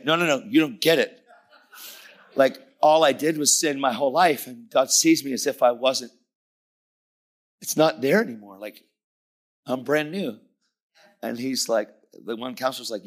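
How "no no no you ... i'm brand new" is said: high, loud, insistent excitement; freaking out. Retold or imitated. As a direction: press the amazing news on someone who misses it. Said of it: "I'm freaking out".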